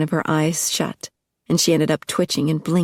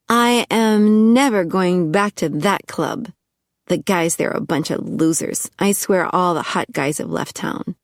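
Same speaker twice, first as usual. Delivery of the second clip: lightly voiced tipsy blonde; 3 semitones higher than usual. Lindsay complaining to Juicy about the club, lightly voiced. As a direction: pout through the complaint.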